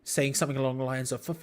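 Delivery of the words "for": high, drawn-out angry rant, volume held back; furious retold scream. Fan slamming the pub table at a misplaced pass, fuming. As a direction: re-enact fuming at a player, slow and high. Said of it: "screaming it, like, so angry".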